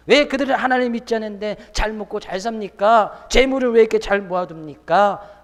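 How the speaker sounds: complaining. Acted. Believer asking God why unbelievers prosper, complaining. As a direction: put on an indignant believer's complaint. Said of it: "라고 불평, 불만하거나 시기하지 말라".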